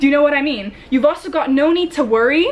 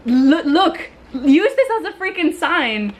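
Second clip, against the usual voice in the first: laughing insistence; 3 semitones higher, slower than usual. Real, not acted. Laughing while urging.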